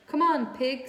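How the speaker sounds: loud, high farmhand call. A narrator's reading. Farmhand calling the pig to breakfast, loud and high. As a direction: holler it across the yard.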